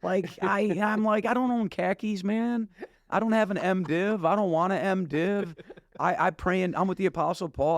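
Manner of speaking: high, slowed, emphatic refusal; laughing protest. Retold or imitated. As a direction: insist half laughing that you're not their guy. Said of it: "I'm laughing".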